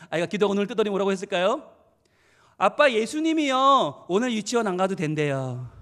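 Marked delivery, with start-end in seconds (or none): 2.6-5.7 put-on slow, drawn-out child's report, loud at first; cheeky little child. Child telling dad what Jesus said, cheekily. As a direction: imitate a child slyly announcing good news. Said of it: "얼마나 얄미워요".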